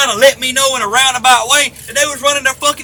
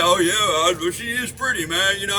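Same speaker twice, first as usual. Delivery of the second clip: creepy mimic; 4 semitones lower, 5 dB quieter than usual. Mimicking a pervert biting bait.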